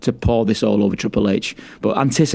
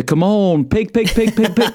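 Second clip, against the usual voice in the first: high calling pig, pig, pig; Vince impression; 10 semitones higher than usual. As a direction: call the pigs like Vince. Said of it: "Vince joining in with the".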